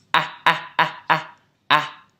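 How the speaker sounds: loud wide A drill; teacher drilling the A; exaggerated A. Shown as a demonstration. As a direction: drill the open A loudly. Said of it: "Từ tiếp theo".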